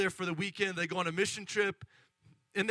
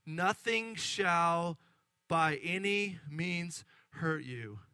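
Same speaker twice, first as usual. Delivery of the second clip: solemn scripture reading; 3 semitones lower than usual. Acted. Reads scripture as Jesus.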